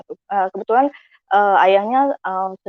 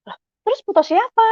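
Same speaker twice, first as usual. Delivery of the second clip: high-pitched baffled question; puzzled; 11 semitones higher than usual. Retold or imitated. Child asking friend about a photo, puzzled. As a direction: imitate a child wondering aloud, voice up. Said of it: "Saya bingung".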